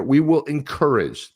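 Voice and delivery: high, slow "encourage", each syllable stretched; pointed emphasis on ENCOURAGE. Acted. Host pointing out a buzzword, slow stress on "encourage". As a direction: draw out "encourage" slowly to single it out. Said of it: "Look at this word here".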